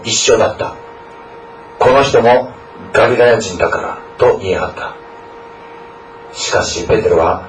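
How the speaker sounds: measured, even Bible reading with the quotes lightly voiced; scripture reading. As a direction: read the passage out to the congregation. Reads the scripture passage aloud. (聖書朗読の落ち着いた読み)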